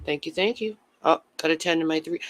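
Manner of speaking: ordinary talk, nothing marked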